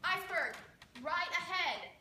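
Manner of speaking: loud, high warning call; urgent shout. Acted. Lookout shouting the warning to the officer on the bridge, urgent shout. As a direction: make the bridge hear it.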